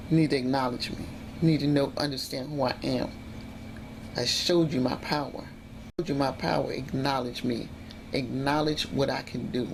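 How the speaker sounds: low, measured voice of an unseen power; understated sinister presence; menacing inner voice. Retold or imitated. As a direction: quietly assert your power, slowing toward the end. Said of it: "something says".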